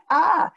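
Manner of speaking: Ah sung out high and loud; sounding O. Shown as a demonstration. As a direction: open up on Ah for the O. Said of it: "your mouth is going".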